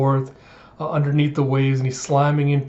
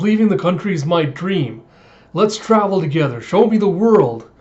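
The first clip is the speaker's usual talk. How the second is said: raised voice, climbing to the end; eager plea; 4 semitones higher, 4 dB louder than usual. Retold or imitated. Runaway lord begging to travel along, eagerly. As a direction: call it out with growing enthusiasm.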